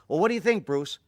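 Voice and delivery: shouting over the engine, delighted; thrilled showing off. Retold or imitated. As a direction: Steve boasting to Bruce while speeding, thrilled. Steve after the spin.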